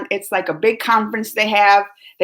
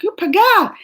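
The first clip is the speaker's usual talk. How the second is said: higher pitched, mock taunt; retold name-calling; 10 semitones higher, 4 dB louder than usual. Viewers calling her crazy, a mock taunt. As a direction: toss it out as a mock jeer.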